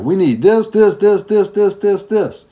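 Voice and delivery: hammed-up excited list; mock eager listing. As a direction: tease her eager shopping list. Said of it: "you're like".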